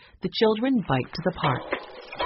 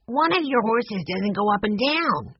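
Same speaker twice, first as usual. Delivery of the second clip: put-on higher-pitched child reporting a problem; young boy's voice; 5 semitones higher than usual. A narrator's reading. Benny tells Joshua about the horse, high boyish voice. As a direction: pitch it up like an earnest little boy.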